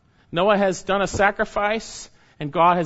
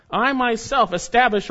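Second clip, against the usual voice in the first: "I" and "myself" pushed higher and louder; emphatic stress; 6 semitones higher, 4 dB louder than usual. Shown as a demonstration. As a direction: stress "I myself" as God's own act. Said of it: "this is emphatic".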